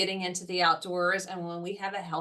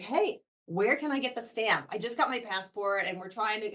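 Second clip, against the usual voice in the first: lightly acted, slightly raised excited question; mildly excited visitor; 3 semitones higher than usual. Park visitor stops the campground host to ask, mildly excited. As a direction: imitate an eager camper asking for help. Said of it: "they're super excited".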